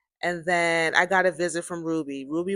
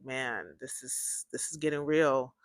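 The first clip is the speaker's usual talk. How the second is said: hushed inner thought; 5 semitones lower, 8 dB quieter than usual. Retold or imitated.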